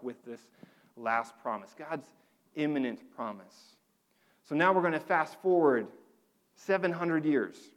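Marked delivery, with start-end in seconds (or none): 4.4-7.7 stretched, louder tape fast forward sound. Pretend. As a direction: play it like a cassette on fast forward. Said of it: "That was my fast forward voice".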